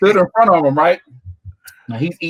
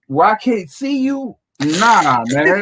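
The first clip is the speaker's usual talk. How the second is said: alarmed refusal; 6 semitones higher, much slower than usual. Retold or imitated. Alarmed refusal to turn his back.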